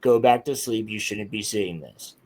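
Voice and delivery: eerie low computer voice; Tron voice. Retold or imitated. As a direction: intone it like a machine in your head. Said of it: "a voice that sounded like the voice from Tron".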